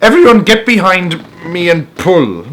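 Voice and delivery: rally the crew to haul the rope; shouted order. Acted. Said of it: "shouted the old green grasshopper".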